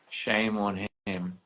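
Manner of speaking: slow mock shame on him, at normal level; mock scolding. Teasing a friend who declined the live, mock scolding. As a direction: tease the friend slowly.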